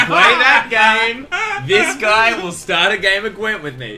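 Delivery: excited plea. Real, not acted. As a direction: drag out play that game. Urging friends to play.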